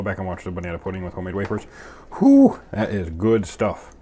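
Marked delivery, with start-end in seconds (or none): 2.2-3.9 enthusiastic. Real, not acted. Savoring pudding memory.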